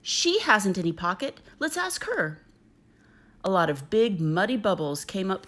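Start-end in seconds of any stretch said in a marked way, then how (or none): 0.0-2.4 rising, eager idea, climbing high at the end; light up with a new plan; hopeful. Acted. Kangaroo mother tells her son her plan, bright and hopeful. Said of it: "feeling lots better already".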